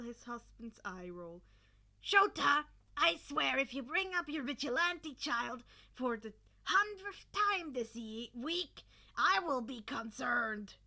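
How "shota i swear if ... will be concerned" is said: exasperated. Acted. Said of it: "The blonde sighed, exasperated".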